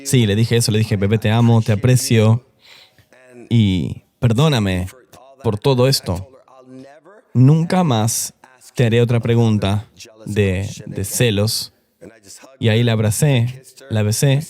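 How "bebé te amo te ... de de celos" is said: suave y lento, pidiendo perdón de corazón; disculpa tierna. Retold or imitated. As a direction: como quien le ruega perdón a su amada, despacio. Pide perdón a su novia. (a su novia, tras los celos: tierno y lento)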